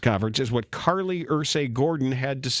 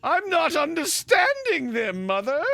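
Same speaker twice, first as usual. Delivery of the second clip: high, far calling out; mock call for mother; 12 semitones higher, slower than usual. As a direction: call out for mother like a lost old man. Confused owner voiced.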